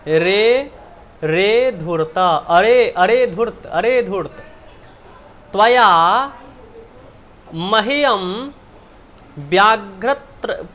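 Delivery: loud mock scolding of the jackal. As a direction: wag a finger and scold the rogue. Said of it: "डांटती हुई".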